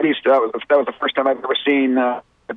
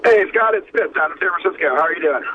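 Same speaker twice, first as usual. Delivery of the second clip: echoey phone line from a car; 6 semitones higher than usual. Real, not acted. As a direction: caller sounds echoey, distant. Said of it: "you sound kinda echoey back there".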